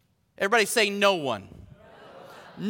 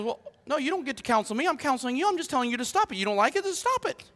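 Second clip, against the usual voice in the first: mock exasperation; 5 semitones higher, much faster than usual. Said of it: "then she gets really irate".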